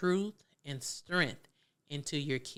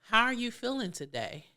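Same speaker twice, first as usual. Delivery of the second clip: higher, inviting question; parent asking gently; 7 semitones higher, 3 dB louder than usual. Shown as a demonstration. Parent checking in on a child, bright asking voice. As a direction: lift up and invite an answer. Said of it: "what you guys can start doing is".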